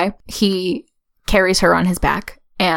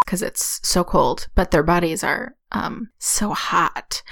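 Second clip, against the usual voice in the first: suggestive; 4 semitones lower, 5 dB quieter than usual. Acted. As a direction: lean into the double meaning. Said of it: "Why are you saying it like that?".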